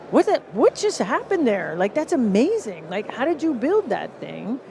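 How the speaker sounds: wide-eyed amazement; amazed. Retold or imitated. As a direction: react like you've just seen magic. Customers amazed.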